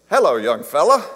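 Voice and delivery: cowboy greeting. Retold or imitated. Old cowboy at the chiropractor greets the minister, lightly voiced cowboy. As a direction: greet him like a friendly old ranch hand.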